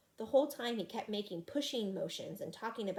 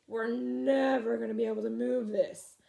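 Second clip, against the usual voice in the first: panted; 2 semitones higher, 6 dB louder than usual. Acted. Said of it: "I panted".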